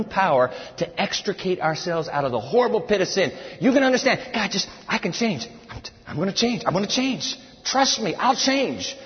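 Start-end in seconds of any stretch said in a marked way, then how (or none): 4.3-9.0 a hint of higher mock pleading; blithering servant. Sinner promises God he'll change, lightly mocking plea. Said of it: "we begin to sound like this blithering servant".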